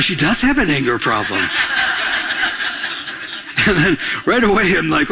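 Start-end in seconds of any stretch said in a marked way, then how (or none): 0.0-1.4 low chuckling aside; laughing aside. Retold or imitated. 1.4-3.6 breathy laughter; soft laugh. Real, not acted. Laughs at own joke.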